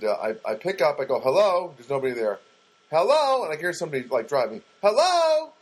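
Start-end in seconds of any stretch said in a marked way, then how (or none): 1.2-1.7 louder, higher retold phone hello; calling into phone. Answering a silent phone call. 2.9-3.4 loud, high hello into a silent phone; insistent calling. Retold or imitated. Repeating hello to silent caller. 4.8-5.5 very high, loud, drawn-out hello; exasperated calling. Retold or imitated. Third hello to silent caller.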